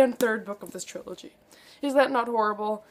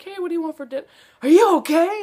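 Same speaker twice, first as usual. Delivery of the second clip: higher, louder mock dad checking in; dad walking in, asking about dinner, mock-concerned; imitating dad; 6 semitones higher, 7 dB louder, much faster than usual. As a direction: play the dad walking in on his crying daughter. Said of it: "my dad walks in like".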